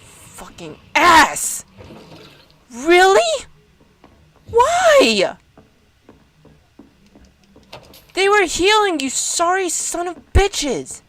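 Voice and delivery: raging at the enemies, shouting curses at the screen; furious yelling. Real, not acted. Player raging at killers of the healers, furious yelling. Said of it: "I'm pissed now".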